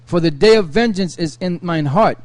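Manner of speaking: measured Bible reading voice; steady reading of old scripture. Acted. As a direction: read the verses like a lector. Reads Isaiah aloud.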